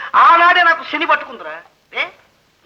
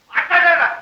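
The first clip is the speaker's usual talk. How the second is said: ordinary talk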